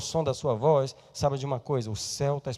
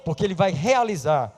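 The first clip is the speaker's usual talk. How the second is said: full-force preacher's shout; preaching shout; 9 semitones higher, 15 dB louder than usual. Real, not acted. Preacher shouting to the church about salvation. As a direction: cry it out over the congregation.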